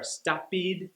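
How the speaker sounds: "stoppied" with an added ee syllable at the end; wrong extra syllable. Shown as a demonstration. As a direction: say "stoppied" as three beats, stop-pee-d. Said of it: "They'll add an extra syllable at the end".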